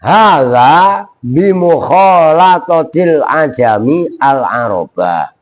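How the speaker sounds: slow, measured "Hadza bimukhalatatil ajami al-aroba"; slow Arabic recitation. Shown as a demonstration. Teacher correcting the student, reciting Ali's line slowly. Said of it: "bukan begitu".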